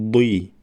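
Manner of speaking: بی said clearly, with the i vowel; syllable demo. Shown as a demonstration. Teacher contrasts بی with the vowelless form. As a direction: say بی crisply. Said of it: "تلفظ کنیم".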